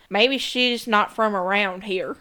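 slow, lightly imitated East Texas country accent; a gentle nod to an East Texas lawman's twang; Lieutenant Hope's East Texas drawl. Quoting the Dateline lieutenant in a light East Texas drawl. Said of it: "when Lieutenant Hope says".

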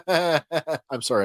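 apologetic, through a laugh; laugh, then apologize slowly. Real, not acted. Co-host apologizing for laughing at the charge, laughing. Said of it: "I shouldn't laugh".

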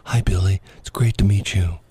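hushed mock whisper. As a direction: greet a star in a whisper. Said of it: "You have to whisper to her".

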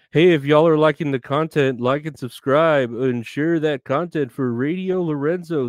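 loud, upbeat DJ plug; radio DJ voice. Pretend. Hyping up viewers like a radio DJ. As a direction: pitch the channel like a radio host.

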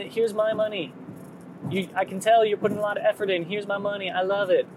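a hint of wide-eyed hopeful self; naive dreamer voice. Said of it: "this is the voice that I do for myself".

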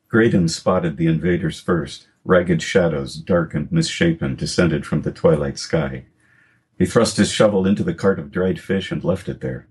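measured storytelling read; story narration. Acted. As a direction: read the prologue to listeners. Author reads prologue aloud.

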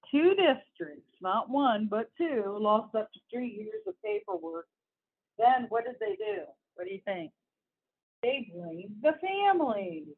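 emphatic read-aloud of an article; lightly heightened news-reading voice. Acted. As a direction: read it out to listeners, punching key words.

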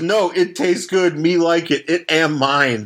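lightly voiced Bizarro, slow and simple-minded; a hint of a dumb brute, drawn out slowly. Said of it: "the kid actually talks like so, uh, Bizarro".

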